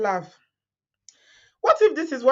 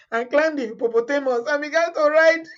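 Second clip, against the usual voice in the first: laughing through it; 4 semitones higher than usual. Real, not acted. Laughing at the story.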